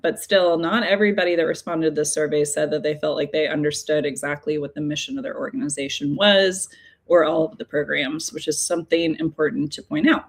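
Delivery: talking through a tickle in the throat, frog in throat. Real, not acted. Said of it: "I've got a tickle in my throat".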